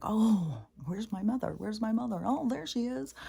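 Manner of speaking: high, searching voice of a lost little spirit; lost child voice. Pretend. A stray energy searching for its mother, high and plaintive.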